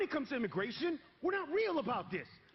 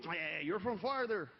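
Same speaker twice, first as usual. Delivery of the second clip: slow, lower mock Mexican accent; 6 semitones lower, slower than usual. Mexicans in East LA taunting the family, mock Mexican accent. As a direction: drag it out in a mocking Mexican accent. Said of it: "and I quote".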